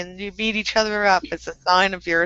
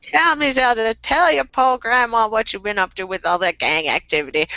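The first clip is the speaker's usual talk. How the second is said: lightly voiced nagging grandma; old lady voice. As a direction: scold like a fussy granny. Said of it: "in my old lady voice".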